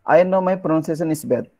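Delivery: mock student complaint. Teacher quoting what students say: mock lament. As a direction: play the self-doubting learner. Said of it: "don't ever talk this statement".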